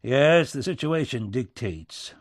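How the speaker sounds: blunt presidential retort; pointed echo. Acted. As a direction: hit YES hard, then echo the phrase. Lincoln echoes the minister's phrase back.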